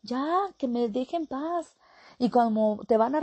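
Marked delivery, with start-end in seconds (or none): 0.0-1.8 higher, exasperated complaining about mom and dad; annoyed grown child. Retold or imitated. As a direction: whine that they won't leave you alone, pitched up. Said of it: "La gente va a decir".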